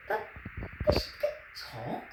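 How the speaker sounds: low, breathless whispered disbelief; stunned whisper. A narrator's reading. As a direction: barely get the words out, amazed. Boy stunned by talking ship.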